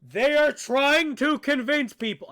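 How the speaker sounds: loud, disbelieving exclamation; incredulous outburst. Real, not acted. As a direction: blurt it out in shock. Shocked at the video's claim.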